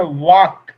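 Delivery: "वॉक" said alone with a silent L; correct pronunciation. Shown as a demonstration. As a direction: model "वॉक" clearly, no L before the K. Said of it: "ऐसे मुंह जैसे बोलते हैं". ("वॉक" में ल को चुप रखकर)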